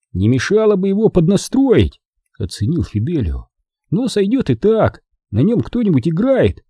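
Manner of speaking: put-on high, chatty young visitor; cheerful, confident youngster; Fidelio, breezy boy. A narrator's reading.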